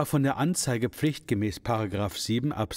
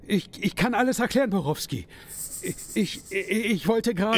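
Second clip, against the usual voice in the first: stammering, higher and panicky; nervous stammer; 7 semitones higher than usual. Acted. Shop owner stammers excuses to the gangster Borowski in fear.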